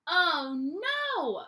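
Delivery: hammed-up gasp of alarm; storyteller's playful oh no; mock dismay.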